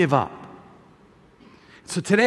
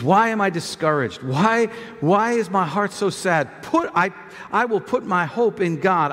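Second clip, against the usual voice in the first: lower, measured reading of a psalm; calm, lower scripture reading; 3 semitones lower than usual. Acted. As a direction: read it solemnly to the church. Reads the psalm aloud.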